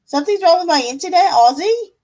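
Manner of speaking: playful put-on Australian voice with rising ends; Aussie voice. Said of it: "in the Aussie voice".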